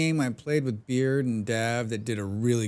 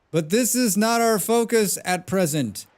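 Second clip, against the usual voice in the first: higher-pitched, hammed-up old man; 6 semitones higher, 3 dB louder than usual. Shown as a demonstration. Streamer showing off a character voice for game dialogue, old man voice. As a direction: put on an old man's voice for the dialogue. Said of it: "That's my old man voice".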